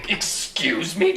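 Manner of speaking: normal talking voice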